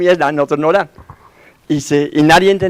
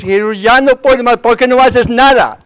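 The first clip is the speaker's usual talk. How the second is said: higher, pleading cry of a frightened disciple; grito a Jesús imitado; 7 semitones higher than usual. Retold or imitated. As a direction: call out to Jesus in despair, voice lifted. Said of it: "Que grita a Jesús". (clamor agudo y suplicante, imitado)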